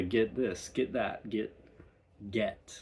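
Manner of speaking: "get" with a broad open e, crisp t; broad British get. Shown as a demonstration. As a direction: say "get" broad, never "git". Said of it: "Very broad".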